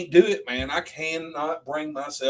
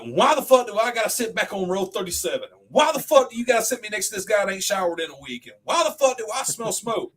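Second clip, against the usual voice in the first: comic gripe; 7 semitones higher than usual. Retold or imitated. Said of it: "he's like".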